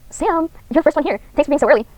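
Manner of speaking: lightly voiced club president; Monica voice. Voicing Monica, bright.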